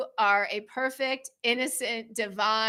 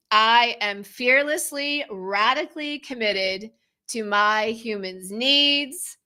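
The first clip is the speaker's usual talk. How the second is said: affirmation. Shown as a demonstration. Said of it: "we can say an affirmation together".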